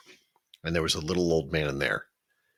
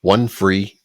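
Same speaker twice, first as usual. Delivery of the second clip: mock ad excitement; 4 dB louder than usual. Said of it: "they're like".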